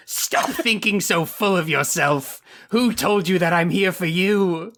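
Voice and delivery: haughty aristocrat mom. Acted. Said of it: "do you want to own this little bitch boy".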